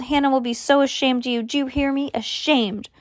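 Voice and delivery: high-pitched scolding; mild yell. A narrator's reading. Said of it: "she yelled".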